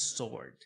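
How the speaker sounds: "sword" said as "sord"; silent W. Shown as a demonstration. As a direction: model sword with no W sound. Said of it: "esse W nós não falamos".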